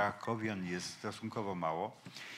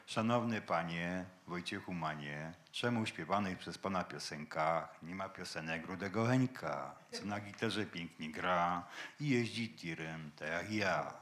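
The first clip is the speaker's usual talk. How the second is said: Kraków accent; 4 semitones lower, 3 dB quieter than usual. Shown as a demonstration. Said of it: "Może spróbujemy po krakowsku".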